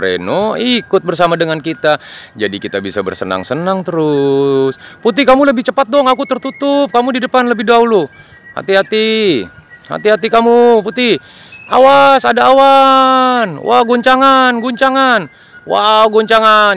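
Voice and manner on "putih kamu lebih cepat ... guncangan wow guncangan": excited little plane calling out, pitched high; high toy plane voice. Acted. Plane warns Putih about clouds, high excited. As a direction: shout warnings like a tiny plane in a cloud.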